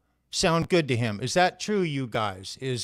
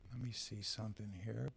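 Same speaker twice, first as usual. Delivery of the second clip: scrambled voice; 5 semitones lower, 20 dB quieter than usual. Real, not acted. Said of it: "your audio is garbled".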